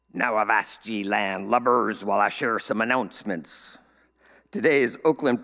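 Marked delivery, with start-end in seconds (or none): 0.1-3.8 a hint of a pirate growl; light pirate voice. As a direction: slip lightly into pirate talk. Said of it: "Talk Like a Pirate Day".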